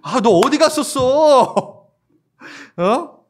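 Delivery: high, loud and slow, bursting with the news; excited telling. Retold or imitated. Disciples to Thomas, thrilled: high excited report. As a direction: gush it out like you can't hold it in. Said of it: "확 신나게 막 얘기했겠죠".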